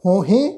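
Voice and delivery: "ਹੋਹੇ" with nasalised vowels, hon-hen; nasal pronunciation. Shown as a demonstration. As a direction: send the vowels of "ਹੋਹੇ" through the nose. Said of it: "ਨਾਸਿਕ ਉਚਾਰਨ ਕਰਾਂਗੇ".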